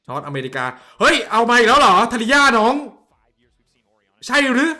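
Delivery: loud, high exclamation at a bad pick; real incredulous shout, pitch jumping up; outraged disbelief. Real, not acted. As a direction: yelp in disbelief at the draft.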